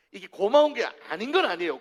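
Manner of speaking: ordinary talk, nothing marked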